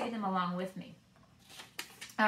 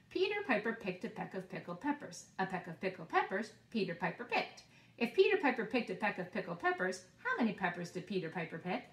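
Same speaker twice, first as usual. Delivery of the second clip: quicker tongue twister, still clear; a bit faster. Shown as a demonstration. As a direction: speed it up a little. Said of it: "We'll go just a little bit faster".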